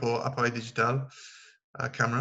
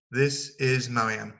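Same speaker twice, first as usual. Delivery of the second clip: this is Marianne, slow and clear; model introduction; slower than usual. Shown as a demonstration. Teacher models the return introduction, slowly. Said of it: "Et au retour".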